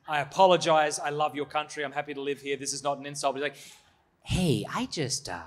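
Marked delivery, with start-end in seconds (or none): 0.1-3.3 bad American accent. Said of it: "my really bad American accent". 4.2-5.4 bad American accent. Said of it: "my really bad American accent".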